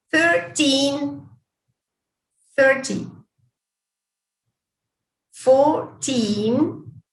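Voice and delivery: put-on thirteen with teen stressed, thirty with first syllable stressed. Shown as a demonstration. Teacher models number pairs for students, careful stress. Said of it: "the main difference is on the stress".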